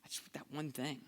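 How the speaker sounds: broken whisper; whispered prayer. Retold or imitated. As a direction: whisper it to God. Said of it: "I remember just thinking".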